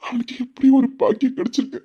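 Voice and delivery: halting, tearful longing; crying. Acted. Veera watching his father favour his brother, crying. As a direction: break up the phrases with small sobs. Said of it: "வீரா அழுதுகிட்டு தானே இருக்கான்".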